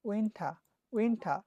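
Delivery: winter with a silent R, ending in uh; teacher models winter with no R; British winter. Shown as a demonstration. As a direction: drop the R in winter, teacher style. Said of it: "R will be silent".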